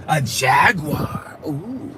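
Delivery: hushed, slow whisper of a Jaguar; awed hushed whisper. Real, not acted. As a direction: breathe the name out in a whisper. Whispering the car's name.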